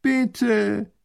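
pleading. Acted. Grand duke begs the farmer.

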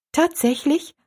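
put-on high, surprised girl's question; astonished. A narrator's reading. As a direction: lift the pitch sharply in amazement. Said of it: "Erstaunen klang in ihrer Stimme mit". (erstaunt, mit hoher Stimme)

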